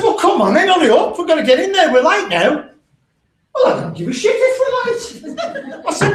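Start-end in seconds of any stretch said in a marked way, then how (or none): 0.0-2.6 high, loud and fast hurrying; impatient hurry. Retold or imitated. Husband rushing his wife into the venue, loud and impatient. 3.5-5.2 very high squeaky wife retort, laughing; mock wife. Wife refusing to hurry for her husband, very high.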